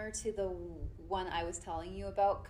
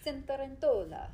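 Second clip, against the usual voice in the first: Italian accent; 5 semitones higher than usual. Shown as a demonstration.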